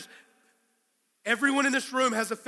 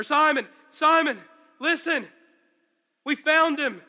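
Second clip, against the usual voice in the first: louder and higher, urgent with joy; excited shout; 4 semitones higher, 5 dB louder than usual. Acted. Andrew telling his brother Simon they found the Messiah, excited shout. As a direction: blurt out the big news.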